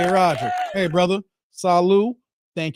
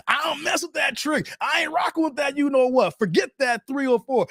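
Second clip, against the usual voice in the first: mock yell; 7 semitones higher than usual. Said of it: "He yelling".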